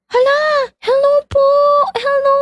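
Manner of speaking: very high squealed hello; high-pitched, giddy welcome; startled, excited greeting. Real, not acted. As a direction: greet newcomers in delighted surprise. Startled greeting of arriving viewers.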